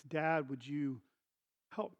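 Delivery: soft, low plea; quiet, halting ask; humble request. Retold or imitated. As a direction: imitate a son giving in and asking. Son humbly asks for help.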